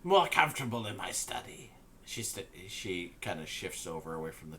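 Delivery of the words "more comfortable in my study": sly hag invitation. Acted. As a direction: lure them in sweetly.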